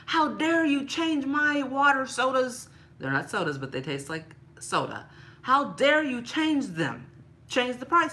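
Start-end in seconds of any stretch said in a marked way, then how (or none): 0.1-2.7 higher, louder hammed-up indignation; mock outrage. Imitating herself scolding Walmart over price hikes, in mock outrage. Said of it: "I was like". 5.4-8.1 higher, louder hammed-up indignation; mock outrage. Imitating herself scolding Walmart over price hikes, in mock outrage. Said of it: "I was like".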